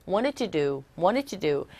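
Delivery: "wanted to do" as "wanet u du", T swallowed after N; softened T in wanted. Shown as a demonstration. Teacher drills the reduced native sound. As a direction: repeat "wanted to do" with a weak flapped T. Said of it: "T음이 굉장히 약화되어져서".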